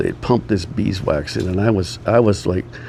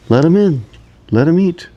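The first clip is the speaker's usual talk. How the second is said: retold loud order; 8 semitones higher, 5 dB louder than usual. Director overruling producer, retold.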